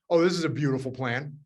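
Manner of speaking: imitating a sarcastic colleague, understated; lightly mock the plan with dry praise; mock sarcasm. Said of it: "people that are gonna be sarcastic".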